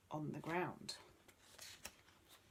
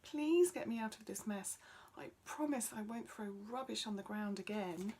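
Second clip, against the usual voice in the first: pleading; 4 semitones higher than usual. Acted. Tim begs to be freed.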